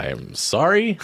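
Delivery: shouted apology. Acted.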